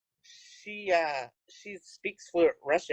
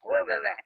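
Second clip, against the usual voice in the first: higher mock-arguing "rah rah rah"; imitated yelling gibberish; 4 semitones higher than usual. Woman imitates Russians sounding like they yell, mock gibberish. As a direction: mimic harsh-sounding foreign chatter. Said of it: "we're yelling at each other".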